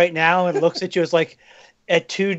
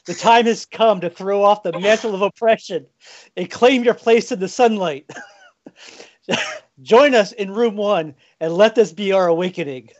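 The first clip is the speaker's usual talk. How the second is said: rallying speech. Acted. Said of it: "set you up to make your speech".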